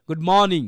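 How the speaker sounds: মর্নিং joined up as "mawning"; silent r. Shown as a demonstration. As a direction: say good মর্নিং without the r. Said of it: "একসাথে বলে কি হবে?".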